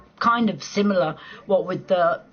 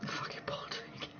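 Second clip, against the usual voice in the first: whispered under the breath, much softer; whispered aside; 17 dB quieter, slower than usual. Real, not acted. Muttering to herself about the cold, whispered. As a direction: breathe it almost silently to yourself.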